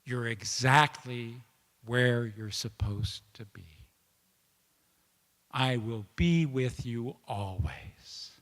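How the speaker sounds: slow, hushed reassurance; gentle divine whisper. Retold or imitated. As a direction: speak as a comforting voice close to the ear. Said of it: "whispering in my ear".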